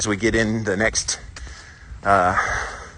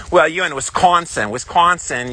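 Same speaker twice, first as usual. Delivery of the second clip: higher-pitched attempt at a Wisconsin accent; 7 semitones higher than usual. Southern walker teasing a Wisconsin viewer in a mock Wisconsin accent. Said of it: "Southern boy trying to say a Wisconsin accent".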